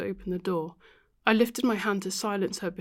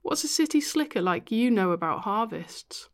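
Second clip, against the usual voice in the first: breathy laughing tease; laughing whisper; 2 semitones higher, 3 dB louder than usual. Acted. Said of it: "Ruth laughed".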